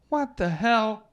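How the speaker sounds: drawn-out high shout of alarm; startled parents yelling. Retold or imitated. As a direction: yell it slow and high, caught off guard. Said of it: "And they go".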